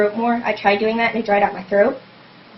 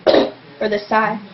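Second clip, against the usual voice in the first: warm-up cough; much slower than usual. Shown as a demonstration. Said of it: "Like, with the coughing".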